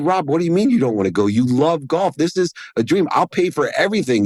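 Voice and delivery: high, quick, eager pleading; a high, insistent plea; urgent pleading. Retold or imitated. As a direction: push hard to persuade your friend. Pleading with his best friend.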